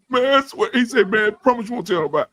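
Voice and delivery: lightly acted tearful begging; imitated tearful plea. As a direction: plead like an embarrassed, crying friend. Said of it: "That nigga will cry his whole".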